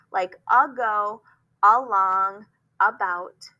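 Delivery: AGO, ALONG, ABOUT each opened on a clear "uh"; spaced-out teacher's word list; schwa examples. Shown as a demonstration. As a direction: list them one at a time, separating the first "uh". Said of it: "sometimes A is borrowing that sound".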